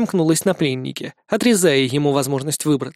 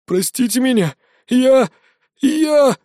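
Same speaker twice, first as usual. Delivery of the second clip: trembling plea; 7 semitones higher, 3 dB louder, slower than usual. A narrator's reading. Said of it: "Голос его дрожал".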